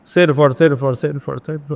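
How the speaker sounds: insist, صرف اور صرف over and over; repeated emphasis. Shown as a demonstration. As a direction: stress every صرف in a chain. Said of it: "آپ اس کو ہزار مرتبہ لکھ لیں".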